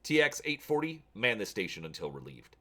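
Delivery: a general giving curt orders; commanding officer. Acted.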